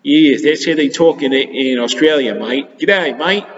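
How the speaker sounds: lightly put-on Australian accent with a cheerful G'day mate; a hint of an Australian voice, playful teacher imitation; mild mock Australian accent. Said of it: "That's how they talk in Australia".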